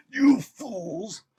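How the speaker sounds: loud villain line through laughter; laughing villain shout. Pretend. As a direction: crack up while shouting it.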